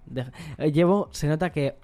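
too much caffeine. Real, not acted. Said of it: "llevo tres cafés".

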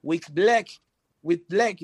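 put-on "With black" said with a Spanish accent as /wit blek/; mock the announcer's mangled "with black"; mispronounced band name. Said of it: "lo leían así".

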